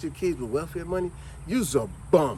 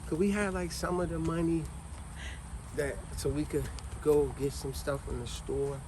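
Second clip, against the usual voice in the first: put-on nervous kid; 2 semitones higher than usual. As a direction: stumble through the ask like a scared child. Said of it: "You're so nervous".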